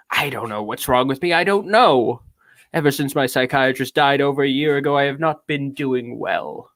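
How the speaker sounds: theatrical, affected confession; lightly pompous actor's reading; Orson Welles. Acted. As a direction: deliver petty woes with grand gravity. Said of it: "talks like Orson Welles all the time".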